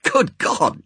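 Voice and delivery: startled, sharp outcry; a sudden aghast gasp of words. Acted. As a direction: recoil in shock at the table.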